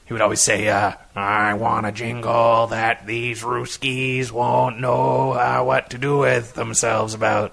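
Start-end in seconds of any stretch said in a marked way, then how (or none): 1.2-7.5 put-on slow Kennedy voice in a Canadian accent; drawn-out Canadian-accented Kennedy. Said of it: "he's had a Canadian accent".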